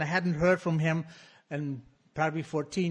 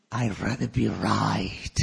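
stubborn retort; 6 semitones lower, 3 dB louder, slower than usual. Real, not acted.

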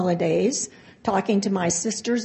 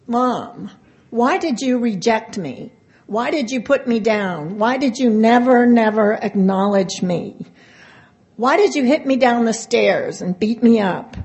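pleading questions that grow louder; a daughter demanding answers, rising in pitch; hurt accusing daughter; 2 semitones higher, 5 dB louder than usual. Retold or imitated. Daughter confronting mother on the phone.

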